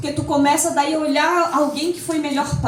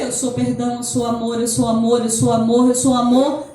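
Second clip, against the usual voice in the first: lower soothing mantra; 4 semitones lower than usual. Shown as a demonstration. Speaker repeats her forgiveness mantra, low and growing. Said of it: "começava a dizer".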